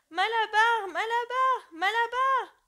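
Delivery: high, loud call; shouting a name. Acted. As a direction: call after the van with all your force. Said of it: "criait-il".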